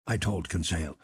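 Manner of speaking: usual speaking voice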